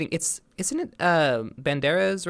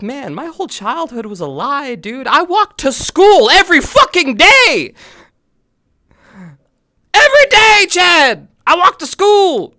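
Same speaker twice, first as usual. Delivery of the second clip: much higher, loud exaggerated rant; mock disbelief rant; 10 semitones higher, 8 dB louder than usual. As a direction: rant about your ruined childhood. Retold outburst to chat.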